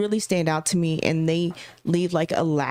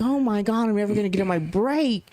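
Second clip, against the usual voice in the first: exasperated inner voice; faster than usual. Retold or imitated. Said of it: "I'm like".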